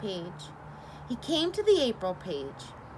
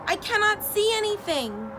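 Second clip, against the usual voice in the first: mock panic; 11 semitones higher, 3 dB louder than usual. Toad blinded by the sun.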